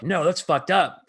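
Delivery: hammed-up disgusted protest; mock outraged party. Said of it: "the party's like".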